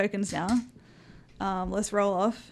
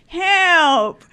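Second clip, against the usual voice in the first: loud, raised, drawn-out wail; mock cry for help; 6 semitones higher, 8 dB louder than usual. Player as Jonas grabbing ankles, hammed-up cry for help. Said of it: "start grabbing people on the ankles, going".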